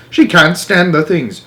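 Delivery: slow, loud panicked complaint. Acted. Jenkins panics.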